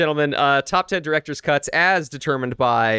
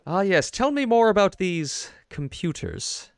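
evil villain voice; 6 semitones higher than usual. Retold or imitated. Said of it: "but, like, evil incarnate".

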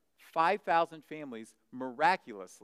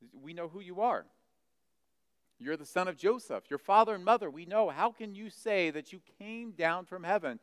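raised, indignant retort of a sceptic; grumbling disbelief; 6 semitones higher, 4 dB louder than usual. Retold or imitated. People who know Joseph's son grumble at Jesus, indignant. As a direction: imitate a crowd objecting to his claim. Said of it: "And they grumble against him".

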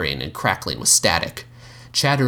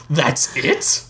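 mocking; 7 semitones higher than usual. Mocking disbelief.

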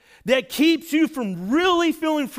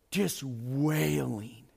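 drawn-out wail; 7 semitones lower, 7 dB quieter, much slower than usual. Shown as a demonstration. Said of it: "He's wailing".

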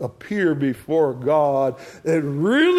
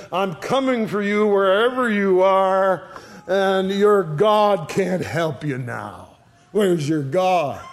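mock threat. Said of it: "it's like Absalom says".

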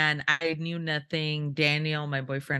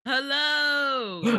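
heavy breathing phone whisper; 7 semitones higher than usual. Acted. Mock creepy phone call reply.

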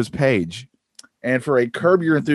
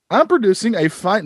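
put-on Australian accent; 8 semitones higher than usual. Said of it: "this is their response".

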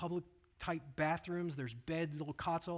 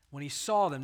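the word "saw" leaned on hard and louder; stress on saw; 7 dB louder than usual. Shown as a demonstration. Preacher to congregation, hitting "saw" loud. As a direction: press on "saw" to make the point. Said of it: "Now that's key".

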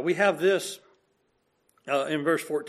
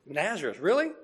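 skeptical disbelief. Retold or imitated. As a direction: scoff at Nazareth, incredulous. Nathanael doubts Jesus' hometown.

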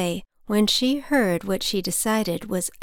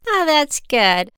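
cackled; 7 semitones higher, 4 dB louder, slower than usual. Acted. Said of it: "the old lady cackled".

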